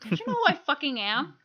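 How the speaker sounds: hammed-up entitled rant; mock berating. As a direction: put the staff in their place. Acting out berating store staff.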